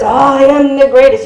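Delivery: lightly acted boxer's catchphrase; a hint of a bragging champion; mildly hammed-up boast; Muhammad Ali. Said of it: "You have to say it in that voice".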